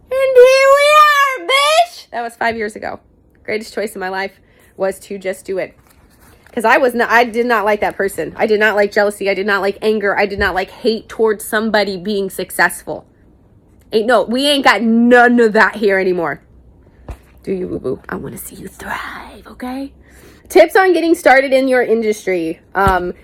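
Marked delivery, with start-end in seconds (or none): 0.1-2.1 high, loud triumphant squeal; and here we are, high and loud; triumphant shout. Real, not acted. Triumphant exclaim after success. 17.4-19.9 soft whisper of encouragement; whispered to viewers, much softer; tender whisper. Real, not acted.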